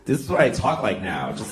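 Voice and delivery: lightly put-on stereotype Mexican accent; mock Mexican accent, for laughs; offensive stereotype Mexican accent. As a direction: play a hammed-up Mexican accent. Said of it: "a very offensive stereotype of a Mexican".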